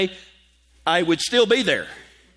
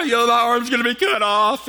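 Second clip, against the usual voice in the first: mock bawling; 4 semitones higher than usual. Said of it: "I start bawling".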